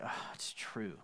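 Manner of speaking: whispered inner admission of Peter. Retold or imitated. Peter admitting to himself, in a whisper. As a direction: breathe it as a private thought. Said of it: "inside he's like".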